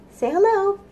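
high, light puppet voice saying hello; puppet dinosaur greeting. Pretend. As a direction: give the little dinosaur a squeaky hello.

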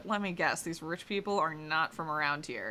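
low, hushed but voiced aside; confidential whisper. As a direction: lean in and confide softly. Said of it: "Lean in and whisper".

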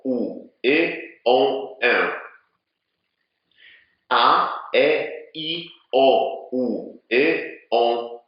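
vowels with big, exaggerated lip movement; exaggerated vowel drill. Shown as a demonstration. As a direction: stretch the lips wide on every vowel. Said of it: "Spróbujcie powtarzać ze mną". (przesadny ruch warg przy samogłoskach)

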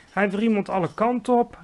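high, loud exclamation; excited cry. A narrator's reading. Sophie watching the trapped dream wriggle, excited cry. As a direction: call out what is happening, amazed. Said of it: "riep Sophie".

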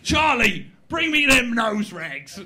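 lightly voiced gang boss; a hint of an old rogue ordering his boys; Fagin. Gang leader instructing his boys, lightly put-on rogue voice. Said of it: "He goes".

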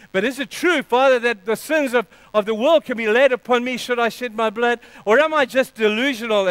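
high, loud, pleading questions; Jesus. Acted. Jesus questions his Father under shame, pleading. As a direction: cry out in doubt to the Father. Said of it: "Jesus would have suffered that same burden".

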